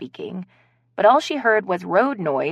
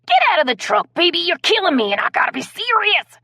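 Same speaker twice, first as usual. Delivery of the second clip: much higher, louder laughing plea; cracking up while begging; high strained laugh-shout; helpless laughter; 13 semitones higher, 6 dB louder than usual. Acted. Carrie laughing uncontrollably at partner.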